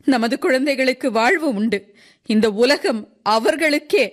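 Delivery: high-pitched, heartfelt declaration; tearful mother's appeal. Acted. Tearful mother tells the crowd the children will live, heartfelt. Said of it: "அழுது சிவந்த கண்களால்".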